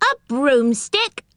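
drawn-out astonished query. A narrator's reading. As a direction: echo it back in disbelief. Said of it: "more astonished than ever".

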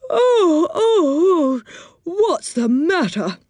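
drowsy, yawning waking voice; sleepy voice. A narrator's reading. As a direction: sound just woken up. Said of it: "said Moonface in a sleepy voice".

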